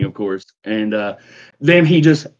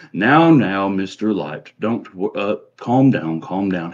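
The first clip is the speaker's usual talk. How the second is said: gently placating, slowing on the last words; soothing; 3 semitones lower, slower than usual. Acted. Short nobleman calming Mister Light, mild soothing tone. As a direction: talk down an overexcited partner. Partner soothing an upset associate.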